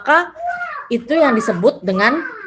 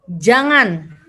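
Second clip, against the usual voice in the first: "jangan" drawn out with a rise and final fall; slow, complete exclamation on "jangan"; final intonation; 3 semitones lower than usual. Shown as a demonstration. Teacher giving an example of final intonation, drawn-out exclamation. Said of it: "yang memiliki intonasi final. Contoh".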